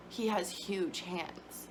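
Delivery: lightly imitating the shell-shocked new dad; husband's stunned line. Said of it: "just the way he said it was".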